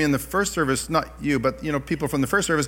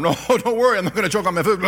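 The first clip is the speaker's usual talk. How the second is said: laughing; 3 semitones higher, faster than usual. Retold or imitated. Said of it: "I thought".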